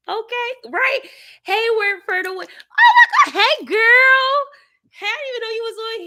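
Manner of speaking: shrieking high and loud with joy; excited shout. Real, not acted. Cheering the driver, then greeting a viewer, high excited shouts. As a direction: cheer and scream hello.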